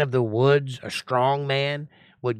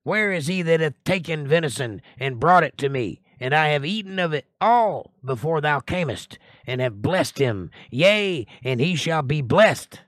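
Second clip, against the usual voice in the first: trembling; 3 semitones higher, 3 dB louder than usual. Acted. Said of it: "Isaac trembled very exceedingly".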